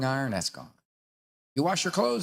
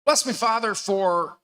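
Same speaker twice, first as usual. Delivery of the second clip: confessing penitent; 6 semitones higher, 4 dB louder, slower than usual. Acted. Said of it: "come to confession and go".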